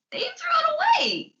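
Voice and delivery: put-on drunken outburst. Drunk pirate bewails lost home, cracking high wail. Drunk Heb rants about Max.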